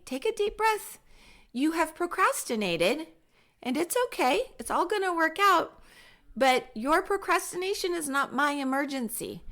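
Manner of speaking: high, calm reassuring teacher voice; teacher calmly reassuring a panicking student. Shown as a demonstration. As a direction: soothe a panicked student, unhurried. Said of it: "Notice the calmness".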